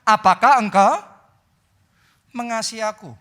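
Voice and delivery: high, loud searching call of the name; Jesus questioning Peter, high and loud; Jesus asking. Retold or imitated. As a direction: call out to him and press the question. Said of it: "dia berkata".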